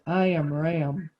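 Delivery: low, slow big ram; deep sheep voice. Shown as a demonstration. Teacher modelling the ram for children, deep and slow. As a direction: drop it low and take it slowly. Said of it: "It's like a deep voice".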